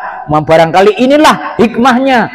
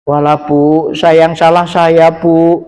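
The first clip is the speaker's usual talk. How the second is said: tearful mother; slower than usual. Retold or imitated. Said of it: "nangis dia".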